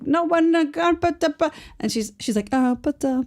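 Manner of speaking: imitating flustered stammering; hammed-up helpless stuttering; mock sputtering. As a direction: stumble over little syllables as if lost for words. Retold flustered sputtering, co-host joins.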